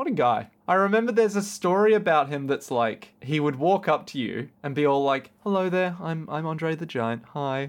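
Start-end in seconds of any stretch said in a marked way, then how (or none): 5.4-7.7 nervous, shy, halting and stumbling voice. Retelling a story of meeting Andre the Giant: imitating nervous Andre the Giant. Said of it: "he'd get really, like, nervous around you".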